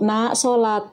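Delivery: gently: "Nak, sholat."; calmly reminding a child to pray; calm mother's reminder. Shown as a demonstration. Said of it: "Ini dengan tenang".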